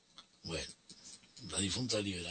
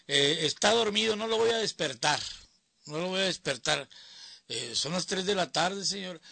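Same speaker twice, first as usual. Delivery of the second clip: higher, louder mother's voice; compadre's mother; 7 semitones higher, 5 dB louder than usual. Retold or imitated. Mother turning away the caller at the door, higher and louder. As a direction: brush the caller off as the protective mother. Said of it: "me decía la mamá".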